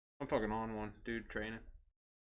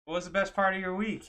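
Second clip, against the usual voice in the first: higher and louder bubbly question; cheery barista; 8 semitones higher, 5 dB louder than usual. Retold or imitated. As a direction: ask it like a peppy drive-thru worker. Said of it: "And she's like".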